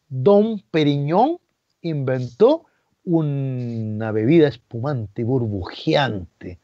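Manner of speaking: slow, grand storyteller tone; mock grandiose. Real, not acted. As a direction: announce it like a legend.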